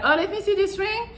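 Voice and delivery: high, bright-eyed pretend curiosity; feigned interest. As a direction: act delighted to see the ring. Feigned interest to hold hand.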